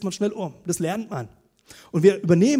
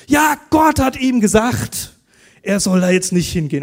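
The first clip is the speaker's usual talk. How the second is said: indignant retold excuse; 2 semitones higher, 9 dB louder than usual.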